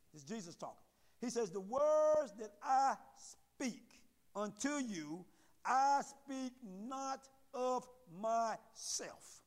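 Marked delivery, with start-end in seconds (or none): 1.5-9.4 each word drawn out slowly, read with weight; slow scripture reading. Shown as a demonstration. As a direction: read the verse slowly so it sinks in. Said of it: "Y'all see that?".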